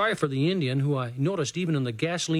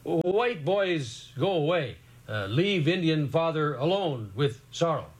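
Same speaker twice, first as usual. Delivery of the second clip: slow, sorrowful and afraid; sad grieving father; slower than usual. A narrator's reading. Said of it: "afraid and very sad".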